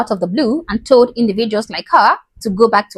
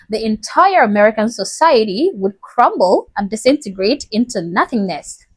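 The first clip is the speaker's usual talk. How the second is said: put-on Southern accent. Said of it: "How was my Southern accent?".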